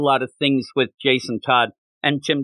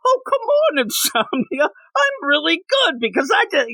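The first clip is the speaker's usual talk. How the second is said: high, whiny complaining voice; whiny bitchy voice; 13 semitones higher than usual. Retold or imitated. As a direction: whine it like a petulant kid. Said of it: "almost whiny, bitchy".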